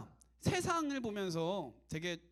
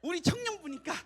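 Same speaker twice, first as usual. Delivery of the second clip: loud, high burst on each phrase; sudden high-pitched exclamations; emphatic outburst; 8 semitones higher, 9 dB louder than usual. Real, not acted. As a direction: punch out each reason as a shout. Playfully justifies bluntness to youth group.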